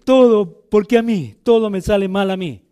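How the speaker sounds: mock self-pitying complaint, punching the first "Todo"; whiny complaint. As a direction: act out a grumbling, sorry-for-yourself quote. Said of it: "A decir". (queja quejumbrosa de burla)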